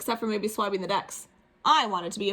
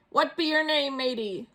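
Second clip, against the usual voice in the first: higher pirate question; 4 semitones higher than usual. Acted. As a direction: ask like a gruff pirate. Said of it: "the head pirate asked".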